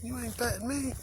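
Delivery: high, squeaky-pitched talking cow; voicing a cow. Voices the cow's answer to him.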